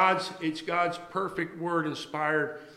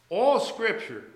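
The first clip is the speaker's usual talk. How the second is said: All punched out higher and louder; stress on all; 5 semitones higher, 5 dB louder, slower than usual. Shown as a demonstration. Preacher pressing the word on the congregation, stressed. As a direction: lean hard on "All" before Scripture. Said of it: "it says all".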